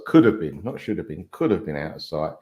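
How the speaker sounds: COULD hit firmly to correct "should"; self-correction leaning on the word "could"; contrastive stress on COULD. Real, not acted. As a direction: punch "could", let "should" drop away. Correcting own word choice.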